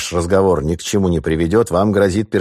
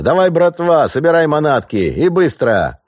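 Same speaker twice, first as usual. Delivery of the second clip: high, loud call to the gang; hollering orders, dragging the last words; 11 semitones higher, 5 dB louder than usual. Acted. Sailor hollering at his gang to pack the loot, high and loud.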